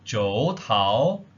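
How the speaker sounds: "Zhou tao" said as a careful Cantonese demo; Cantonese good night. Shown as a demonstration. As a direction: model "Zhou tao" for learners. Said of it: "Good night".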